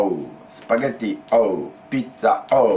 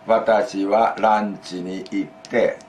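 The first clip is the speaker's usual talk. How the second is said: slow model phrase. Shown as a demonstration. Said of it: "this is and".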